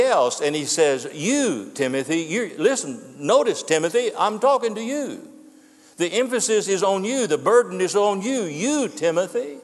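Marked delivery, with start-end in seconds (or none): 1.1-5.3 single out one listener, lifting "I'm talking to you"; emphatic direct address. Acted. Preacher voicing Paul singling out young Timothy, emphatic. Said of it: "It's emphatic". 6.0-9.6 each "you" lifted and leaned on; stress on YOU. Acted. Preacher as Paul putting the burden on Timothy, emphatic. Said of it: "It's emphatic".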